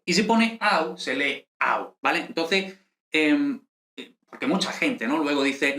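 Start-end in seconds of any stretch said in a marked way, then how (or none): 0.6-2.0 "au" as a gliding into u; both vowels heard in "au"; read as written. Shown as a demonstration. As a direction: say "au" as one A-u glide. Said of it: "exactamente como parece".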